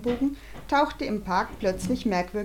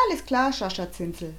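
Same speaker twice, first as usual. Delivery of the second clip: Jonathan. Acted. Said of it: "sagte Jonathan".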